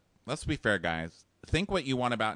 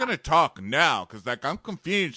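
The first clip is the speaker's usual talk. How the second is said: raised, insistent boyfriend impression; hammed-up frustrated arguing, higher; mock exasperation; 6 semitones higher, 5 dB louder than usual. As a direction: imitate a boyfriend pressing an argument. Voicing Josh arguing with Amanda.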